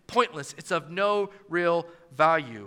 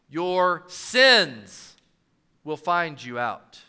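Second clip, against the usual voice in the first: "sins" pressed and held, then a pause and a low, slow "will find you out"; stress on SINS; 5 semitones lower, much slower than usual. Shown as a demonstration. Preacher shifting the emphasis in the verse, leaning on "sins". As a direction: weigh the word "sins". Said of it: "No matter where you place the emphasis".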